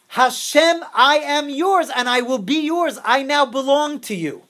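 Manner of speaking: deliberate, heartfelt declaration; earnest vow. Acted. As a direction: pledge yourself slowly, high and steady. Acts out wholehearted vow to God.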